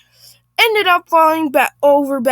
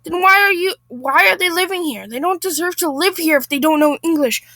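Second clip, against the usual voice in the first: indignant Karen; 5 semitones higher than usual. Acted. Acted Karen arguing.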